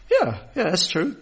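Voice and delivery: chuckling yeah yeah; laughing agreement. Retold or imitated. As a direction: give in with a laugh. Matthew laughs, concedes.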